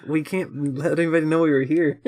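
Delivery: high, hurried alien panic; panicked alien. Retold or imitated. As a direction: play a flustered alien caught out.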